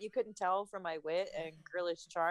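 dry sarcasm, without coy lilt; sarcastic. Shown as a demonstration. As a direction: say it as a sarcastic jab. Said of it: "That was sarcasm".

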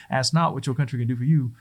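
put-on a terrible Boston accent, like a presidential speech. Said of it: "that's my terrible, uh, Boston accent".

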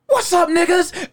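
high, loud and slow hello; loud greeting. Retold or imitated. Eric greeting strangers at the party, high and loud. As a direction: call it out big to the whole room.

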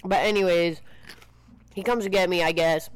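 chewing ice while talking; ice in mouth. Real, not acted. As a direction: talk around a mouthful of ice. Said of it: "The chewing of the ice".

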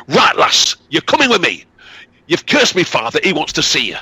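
high, forceful demand; stern young man. Acted. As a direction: seize her with the words. Son seizes the girl.

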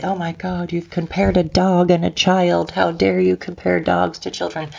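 imitating someone freaking out, lightly; mock outrage. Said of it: "don't everybody freak out and say".

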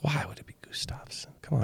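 high, hushed mock disbelief; mock incredulity. Host replying to people who ask, mock incredulous. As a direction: toss it back softly, high-pitched and incredulous. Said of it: "I'm like".

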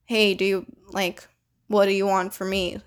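a mildly impatient, blunt ask; the wrong way, a bit too curt; lightly demanding, not unkind. Shown as a demonstration. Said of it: "obviously don't say it that way".

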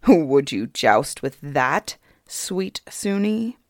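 mock her with a sneer; king sneering at the idea of a joust; mocking fairy king. King mocks the broomstick lance.

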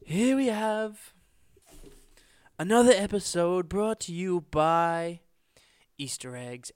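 hammed-up Kermit impression. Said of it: "Kermit the Frog here".

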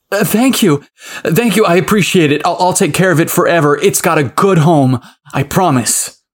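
excited. Acted. Tyler thanks Gavin, overjoyed.

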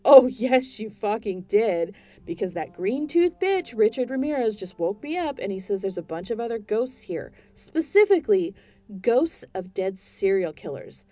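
loud, high ranting; furious rant. Acted. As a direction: tear into her over the phone. Ranting at agent.

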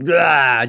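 loud mock roar of release; short "ah" let out like purged anger; venting growl. Explaining how anger feels good, venting mock roar.

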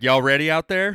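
a hint of a Texas twang hyping the crowd; southern accent. Imitating a singer's Southern crowd call. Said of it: "like, a southern voice".

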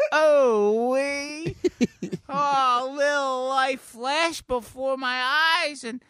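high, slow cartoon voice; high, heartfelt cartoon creature; Mister Poopy Butthole. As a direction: recount it in a drawn-out, high silly voice. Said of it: "Mister Poopy Butthole sitting on the bed".

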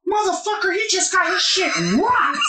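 high-pitched mock outburst; imitated alarmed coach. Head coach reacts to a huge hit, high mock alarm.

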